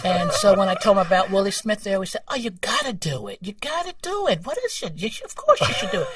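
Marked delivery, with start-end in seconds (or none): 2.3-6.1 imitating excited New York Jewish bosses, high-pitched; New York Jewish accent. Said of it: "That's a great accent".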